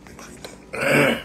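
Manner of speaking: slowly drawled mock. Real, not acted. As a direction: stretch it out slowly, mocking. Drawn-out mocking repeat.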